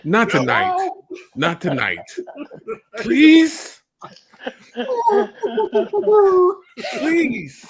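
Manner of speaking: high, begging through the door; pleading voice. Retold or imitated. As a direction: beg to be let in. Acted bedroom-door exchange.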